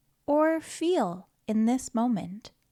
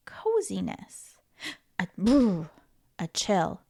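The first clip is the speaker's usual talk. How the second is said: whisper; 4 semitones lower than usual. Acted. Whispered feeling of touch.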